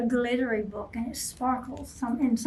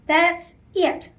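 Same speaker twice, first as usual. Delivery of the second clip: grumbling; 5 semitones higher, 4 dB louder than usual. Acted. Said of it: "Bear grumbled".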